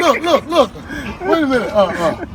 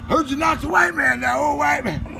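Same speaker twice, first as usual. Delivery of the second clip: put-on white boy voice; 8 semitones higher than usual. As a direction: mimic the mouthy coworker.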